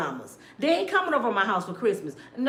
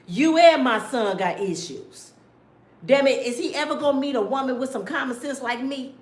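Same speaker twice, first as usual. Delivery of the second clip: mother scolding. Pretend. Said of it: "pulled up on a rapper and said".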